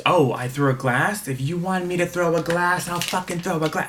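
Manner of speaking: imitating an angry friend's challenge; indignant retort. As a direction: act out an outraged dare, rising pitch. Acting out Jen's outraged retort.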